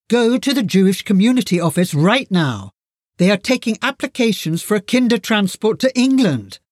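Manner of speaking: mild, urgent mock yell; retold yelling. Mother at front door hurries the girls, understated yell.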